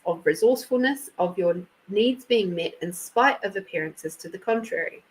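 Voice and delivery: measured oracle card reading; reading aloud. Real, not acted. Reader reads Amanda her oracle card, reading aloud. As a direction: read the card's text out evenly, phrase by phrase.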